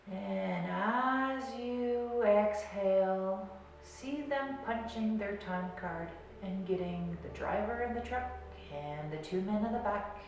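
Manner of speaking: slow, drawn-out words with long pauses; guided meditation. Real, not acted. Coach guiding garbage men through the body, slow meditation voice. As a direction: talk them down through the body, unhurried.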